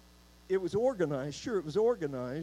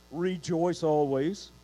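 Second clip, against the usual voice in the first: slow emphatic; 5 dB louder, slower than usual. Shown as a demonstration. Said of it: "reading emphasis".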